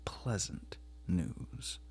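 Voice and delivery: slow, sarcastic weight on "pleasant"; stress on pleasant. A narrator's reading. Husband sneering at wife's news, leaning on "pleasant". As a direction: drag out "pleasant" with mock sweetness. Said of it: "He laid a special stress on the word pleasant".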